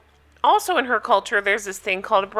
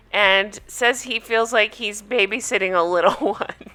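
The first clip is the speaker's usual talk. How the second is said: laughing. Real, not acted. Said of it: "I was laughing".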